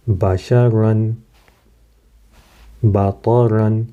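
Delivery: بطرن slow with thick ta and ra; heavy letters. Shown as a demonstration. Teacher modelling heavy letters slowly. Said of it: "تا بھی موٹا ... بھی موٹا".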